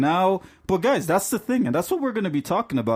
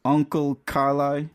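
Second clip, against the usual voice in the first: Trinidadian "Carlisle", ending open without the final L; Trinidadian way of saying "Carlisle"; Trinidadian pronunciation. Shown as a demonstration. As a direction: say "Carlisle" as Car-lie, Trinidadian style. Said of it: "I guess the Canadian pronunciation would be".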